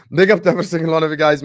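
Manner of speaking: loud, fast shout-out through a laugh; fast laughing host catchphrase; hyped shout-out with a laugh. Acted. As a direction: laugh and hype the crowd. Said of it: "channel shout-out catchphrase".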